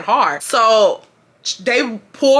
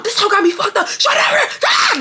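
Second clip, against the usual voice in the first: very high hysterical screech; frantic high-pitched acted scream; mock screaming; 13 semitones higher than usual. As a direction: screech it like a wild tantrum. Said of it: "Like, I'm screaming".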